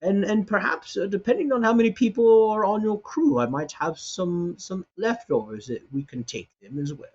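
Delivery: put-on the old cook hoping they enjoy. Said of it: "And he's like".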